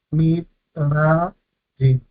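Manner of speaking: MIT, RA, YIM with a break after each syllable. Shown as a demonstration. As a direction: split "Mit, ra, yim" into three separate syllables. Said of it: "y tercer sílaba".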